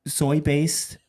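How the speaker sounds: slow drawn-out ad pitch; commercial voice. Acted. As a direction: savor each selling point. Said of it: "freestyle commercial real quick".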